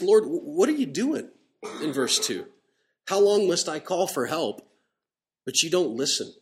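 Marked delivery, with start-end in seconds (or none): 0.0-1.3 raised, louder complaint to God; griping. Acted. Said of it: "Habakkuk was griping to God". 3.1-6.3 raised plea of complaint to God; griping. Acted. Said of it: "Habakkuk was griping to God".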